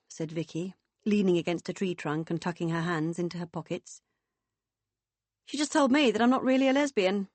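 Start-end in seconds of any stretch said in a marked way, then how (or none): 5.5-7.3 high, loud and affronted; booming, indignant woman. Acted. Woman complaining to friends about a remark, indignant. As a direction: report the slight with hearty indignation.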